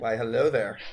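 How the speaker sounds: low, lightly creepy hello. Pretend. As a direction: greet like a creepy stranger. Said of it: "Cre-, creepy voice".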